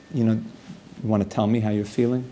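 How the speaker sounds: low, soft therapist voice; soothing therapist. Acted. Robot therapist asking how the client feels, soothing. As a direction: invite them gently to open up. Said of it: "a very soothing therapist's voice".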